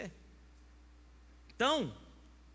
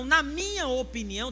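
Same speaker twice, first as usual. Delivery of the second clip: "na minha opinião" louder and higher; mock emphasis; 5 semitones higher, 7 dB louder than usual. Pastor mocking the proud man's insistence on "minha opinião". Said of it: "Então".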